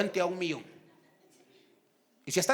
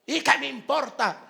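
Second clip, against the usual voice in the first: higher-pitched acted retort, short of shouting; defiant retort; 5 semitones higher than usual. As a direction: toss it back defiantly, voice lifted. Same defiant quote, toned down. (réplica desafiante, sin gritar)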